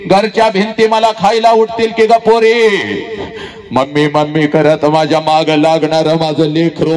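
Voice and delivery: loud, lamenting cry of a mother; wailing mother. Acted. Mother wails to her departing daughter, loud lament. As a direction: pour out a mother's grief, loud and broken. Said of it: "आई हंबरडा फोडत तुला म्हणते".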